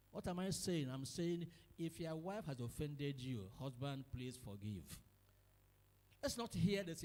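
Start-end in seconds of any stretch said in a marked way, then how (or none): none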